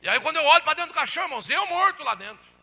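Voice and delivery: loud, high cry of shock, retold; dramatic pulpit outburst; alarmed preaching. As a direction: raise pitch and volume at the shocking reveal. Climax of the coffin vision.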